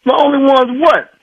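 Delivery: real rattled incredulity; alarmed disbelief. Real, not acted. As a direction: demand an explanation, voice climbing. Husband alarmed by doctor's hints.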